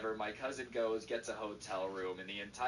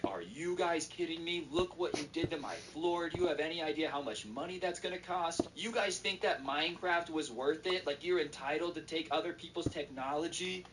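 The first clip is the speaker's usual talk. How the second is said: higher-pitched indignant scolding; mock angry grandpa; 6 semitones higher than usual. Grandpa yells at kids over broken floor, mock indignation. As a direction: scold the kids in rising disbelief, no shouting. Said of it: "is not happy".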